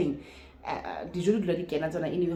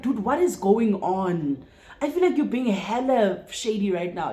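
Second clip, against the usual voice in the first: slow, louder, incredulous; exasperated confrontation; 3 semitones higher, 4 dB louder than usual. Retold or imitated. Retelling confronting her date, exasperated. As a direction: call him out for being shady.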